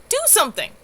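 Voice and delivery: high, loud demand for action; demanding shout. A narrator's reading. Cynthia demanding that Flynn finally lead, shouting. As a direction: shout at him to act now. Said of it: "Cynthia demanded of Flynn".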